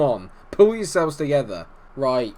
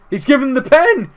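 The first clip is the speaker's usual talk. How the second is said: high, loud burst of excitement; thrilled shout; 12 semitones higher, 9 dB louder than usual. Real, not acted. Gamer sees a penalty awarded, thrilled shout. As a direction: yell it out as the news lands.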